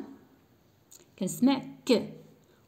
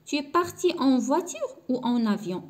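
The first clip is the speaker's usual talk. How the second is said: slow dictation; 4 semitones higher, much slower than usual. Shown as a demonstration. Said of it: "teacher reads French example slowly".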